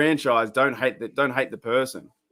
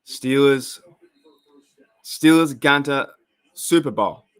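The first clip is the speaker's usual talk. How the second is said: a loud, slow try at a Pittsburgh Yinzer accent, with "Steelers Gunter" drawn out; an Australian putting on a Pittsburgh Yinzer accent; a clumsy Pittsburgh Yinzer impression, announced with a throat clear; attempted Yinzer accent; 6 dB louder, slower than usual. Shown as a demonstration. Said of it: "I can't do the Yinzer accent that well".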